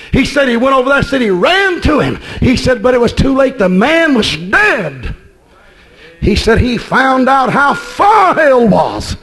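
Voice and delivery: impassioned sermon storytelling; fervent preaching. Real, not acted. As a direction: drive the story home like a revival preacher.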